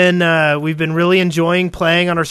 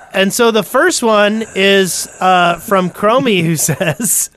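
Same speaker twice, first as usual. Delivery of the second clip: heavy nose breathing; slower than usual. Real, not acted. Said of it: "He's breathing really heavy".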